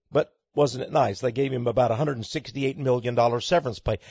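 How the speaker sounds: low, soft and dry, deadpan irony; understated sarcasm about the payout; dry aside. Acted. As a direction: tuck it away as a dry mock-kindly remark. Sardonic aside on CEO payout.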